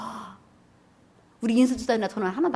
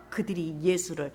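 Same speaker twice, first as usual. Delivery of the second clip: preaching shout; 3 semitones lower, 13 dB louder, slower than usual. Real, not acted. Climactic scripture reading.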